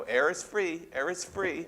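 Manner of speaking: sing-song taunting air is free; teasing sibling taunt. Retold or imitated. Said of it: "put your finger an inch from their face and go".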